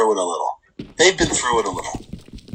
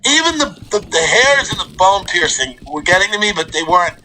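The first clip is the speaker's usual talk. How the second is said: ordinary talk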